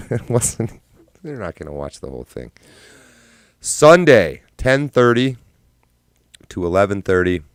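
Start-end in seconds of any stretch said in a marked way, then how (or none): 3.6-7.4 much higher and louder, like a promo; announcer hype. Acted. Streamer announcing the next live show, hyped. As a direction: sell the date like an ad. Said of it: "announcing the next stream".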